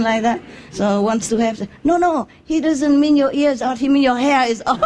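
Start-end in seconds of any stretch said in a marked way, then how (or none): 1.8-4.8 higher, fast, laughing helpful Englishman; eager Englishman. Retold or imitated. Englishman helpfully mistranslating for the agent, laughing. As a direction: rush in to help, laughing. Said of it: "the Englishman wants to help".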